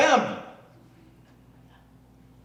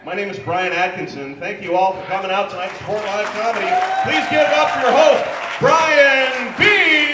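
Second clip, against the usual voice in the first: announcer intro; 4 semitones higher, 7 dB louder than usual. Acted.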